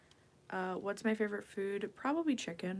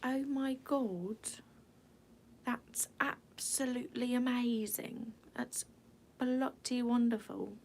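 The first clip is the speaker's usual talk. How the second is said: put-on breathy, half-whispered British accent; light mock British accent; 4 semitones higher than usual. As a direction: gush like a delighted Brit. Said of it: "a U K accent".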